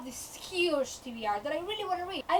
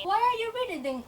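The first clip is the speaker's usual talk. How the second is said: higher-pitched imagined viewer's question; mock questioning; 6 semitones higher than usual. Viewer asks why she keeps reading, mock questioning. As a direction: ask it as the challenging viewer.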